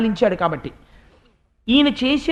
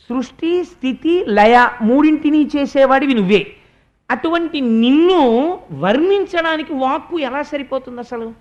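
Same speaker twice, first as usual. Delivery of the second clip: raised, louder devotional praise; fervent praise; 3 semitones higher, 3 dB louder than usual. Acted. Nabhi standing before Vishnu, praising him in a raised fervent voice. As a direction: pour out praise to the Lord, climbing higher. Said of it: "నిలబడి ఒక మాట అన్నాడు".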